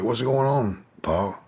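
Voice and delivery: worried question. Retold or imitated. Nephew asking his crying uncle on the phone, mildly worried. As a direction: ask it high and puzzled. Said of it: "I'm like".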